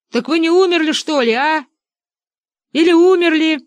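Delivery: shouting up. A narrator's reading. Benedikt shouting up.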